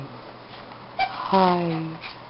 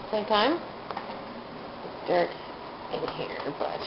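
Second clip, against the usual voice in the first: whispering; 12 dB quieter than usual. Real, not acted. Keeping lights down at night.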